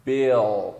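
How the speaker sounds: bill loud and long, L from back in the throat; dark L. Shown as a demonstration. Teacher demonstrates dark L, bill with a throaty final L. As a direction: let the end of bill sink into the throat. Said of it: "vem do fundo da garganta".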